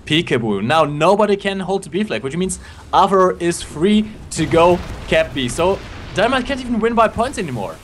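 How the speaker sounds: esports caster calling the match; live play-by-play. Acted. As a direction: call the action like a caster.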